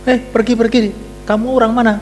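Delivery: high-pitched wife driving off a stranger; wife shooing. Acted. Wife at the door chasing off a man she doesn't recognize, high and insistent. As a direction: shoo him off the doorstep, pitched high. Wife shoos away unrecognized husband.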